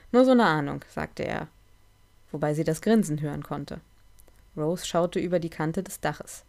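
measured read-aloud storytelling, livelier in the dialogue; story narration. A narrator's reading. Reads a Rose and Mickey story to listeners, story narration.

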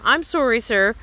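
high mock whine of the boy's apology; mocking imitation. A narrator's reading. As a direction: throw his apology back at him sneering. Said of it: "The master mocks him".

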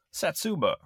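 high announcer call; name the fighter like an arcade game; fighting game announcer. Pretend.

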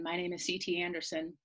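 talking around a mint; mouth full. Real, not acted. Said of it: "I have a ginger mint in my mouth".

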